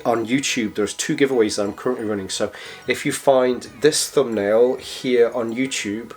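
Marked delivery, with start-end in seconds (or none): 2.3-6.1 hoarse, croaky voice from a cold. Real, not acted. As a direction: talk through a sore, croaky throat. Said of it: "got through that with my croaky voice".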